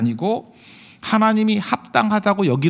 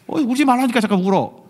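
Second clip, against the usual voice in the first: higher-pitched mock telling-off; scolding mother; 6 semitones higher than usual. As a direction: act out an exasperated mom. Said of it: "그러는 엄마도 있죠". (아이를 다그치는 엄마 흉내)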